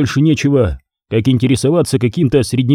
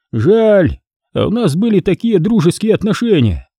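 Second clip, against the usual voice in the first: higher, dismissive boss voice; contemptuous boss; 6 semitones higher than usual. A narrator's reading. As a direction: shoo the underling away.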